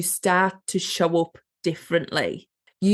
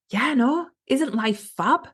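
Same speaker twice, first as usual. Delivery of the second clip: delighted; 4 semitones higher than usual. Pretend. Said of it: "she could have just went".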